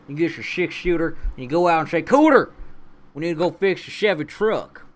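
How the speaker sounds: put-on high-pitched country redneck accent. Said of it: "But then you get, like".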